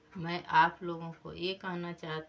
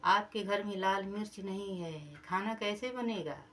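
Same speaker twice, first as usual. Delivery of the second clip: shouting loudly; 3 semitones higher, 3 dB louder than usual. Acted. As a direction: blurt it out for everyone to hear. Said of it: "खूब जोर चिल्ला करके बोला".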